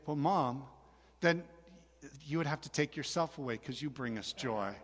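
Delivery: soft, slightly low, with careful pauses; sweet-talking sons. Retold or imitated. Father voicing his boys sweet-talking their mom, softly. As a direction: imitate a gently buttering-up kid.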